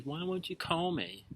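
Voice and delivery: high, plaintive mock plea; pining dater. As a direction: whine it like a jilted date.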